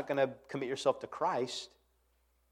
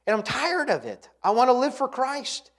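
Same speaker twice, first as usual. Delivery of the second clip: voicing a resolved believer; 8 semitones higher, 6 dB louder than usual.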